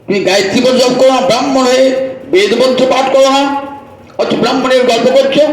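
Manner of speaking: a preacher hammering a hypocrite; scolding rebuke. Acted. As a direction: berate him for his false pride. Preacher scolds a proud Brahmin.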